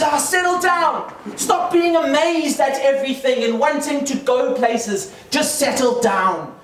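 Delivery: mildly exasperated parent, starting high and drawn out; scolding parent. Retold or imitated. Parents tell their grown child to settle down, mock exasperation. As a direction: lightly imitate a parent reining in a child. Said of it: "my parents keep telling me to settle down".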